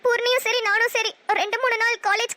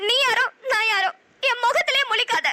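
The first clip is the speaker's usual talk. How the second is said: crying. Acted. Sister breaks ties, crying.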